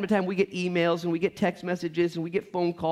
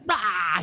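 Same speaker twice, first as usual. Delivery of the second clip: short hammed-up roar; half-playful beast roar; mock roar; 4 semitones higher, 4 dB louder than usual. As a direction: growl it like a monster baring its face. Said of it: "pull his face back and".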